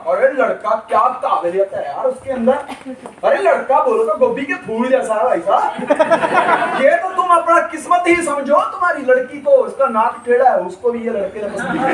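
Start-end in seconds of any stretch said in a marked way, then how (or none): 0.1-6.8 a hint of a boastful matchmaker; lightly voiced matchmaker hyping the groom; mock praise. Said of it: "लड़की बात करता".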